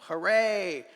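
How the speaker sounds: high loud hooray; cheering. A narrator's reading. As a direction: cheer with joy. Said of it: "all of our friends".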